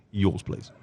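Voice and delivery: low recorded ident; radio sting; jingle voice. Acted. Jingle played again.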